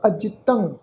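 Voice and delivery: ਅਜਿਤੰ ending on a nasal "ng". Shown as a demonstration. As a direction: close the last syllable of ਅਜਿਤੰ through the nose. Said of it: "ਨਾਸਕੀ ਉਚਾਰਨ ਹੋਏਗਾ". (ਅਜਿਤੰ ਦੇ ਅੰਤ ਵਿੱਚ ਨਾਸਕੀ ਉਚਾਰਨ)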